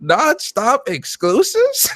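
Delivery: stunned and cracking up, stretching it out; laughing disbelief. Retold or imitated. Streamer retells his own stunned reaction to the exec, slow and laughing. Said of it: "I said".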